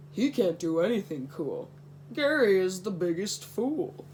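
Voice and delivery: mock taunting. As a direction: jeer at him like a bully. Mean friends mocking Gary.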